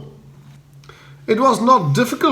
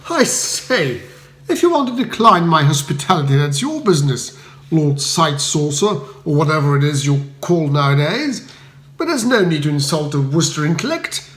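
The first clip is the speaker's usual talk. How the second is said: haughty. Acted. Bertie retorting haughtily to Spode. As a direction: lift your nose at him. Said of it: "I retorted haughtily".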